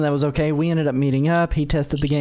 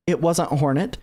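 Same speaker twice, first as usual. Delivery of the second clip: ordinary talk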